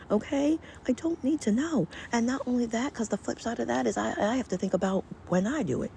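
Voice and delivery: high-pitched exasperated rant; outraged, voice shooting up high; indignant. Real, not acted. Ranting about noisy neighbors.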